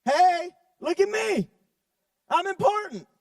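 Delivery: slow, smug show-off voice; puffed-up show-off. Shown as a demonstration. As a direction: chest out, full of himself. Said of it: "This is what a lot of people look like".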